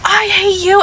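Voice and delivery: high, loud imitation of an angry coworker; imitating the coworker. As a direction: mimic her shrill outburst. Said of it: "She was like".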